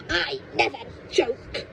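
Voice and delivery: breathless witchy rasp. Acted. Grandma denies joking to George, in a witchy rasp. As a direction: hiss it like an old witch. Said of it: "she said".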